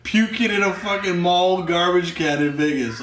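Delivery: high, loud, hammed-up exasperation; mock exasperation. Retelling his dismay at the puking Canadian, mock exasperation. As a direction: complain loudly, playing up the dismay.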